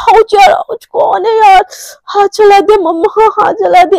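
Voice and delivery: pained yelp. Acted. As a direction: yelp and whimper like the coffee just scalded you. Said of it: "एकदम से चिल्ला के बोलती है". (जले हाथ पर दर्द भरी चीख)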